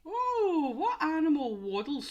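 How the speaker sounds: high laughing question. Real, not acted. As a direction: giggle through the question. Laughing at the waddle clue.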